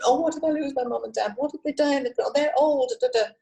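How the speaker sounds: anxious client spiralling about aging parents; worried client. Pretend.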